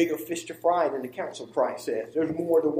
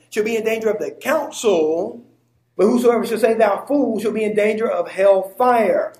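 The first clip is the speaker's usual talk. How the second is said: higher, louder reading building from "council" to "hell fire"; pointed inflection; 4 semitones higher, 5 dB louder than usual. Shown as a demonstration. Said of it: "Now listen to the inflection again".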